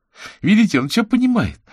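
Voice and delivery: put-on a girl beaming about her clever dog; proud girl. A narrator's reading. Girl shows the wizard her dog understands, very high and proud.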